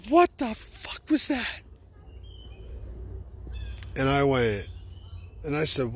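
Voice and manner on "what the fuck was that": retold brother's outburst. Brother yanks him outside.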